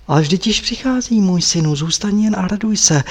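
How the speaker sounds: calling out. Acted. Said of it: "volala paní".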